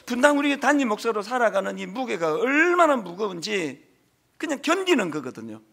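ordinary talk, nothing marked

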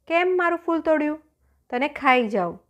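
high, accusing challenge; angry lion. Acted. Lion confronts the merchant who picked his flower, angry. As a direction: threaten the flower thief.

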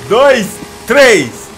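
loud rising count to three; shouted countdown; race countdown. Real, not acted. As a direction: call the start of the race.

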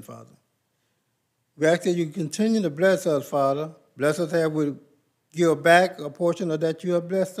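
earnest spoken prayer in a steady cadence; congregational prayer. Acted. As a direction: pray aloud on behalf of the church. Leads the offering prayer.

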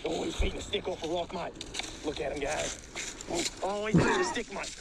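lightly done Australian wildlife narrator; Australian accent. Pretend. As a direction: put on a playful Australian accent. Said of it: "I gotta do my Australian accent".

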